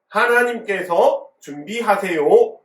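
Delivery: loud title reading. Shown as a demonstration. Preacher leading children in reading the title, loudly. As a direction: read it out big for all to follow. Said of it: "크게 한번 읽어볼까요?".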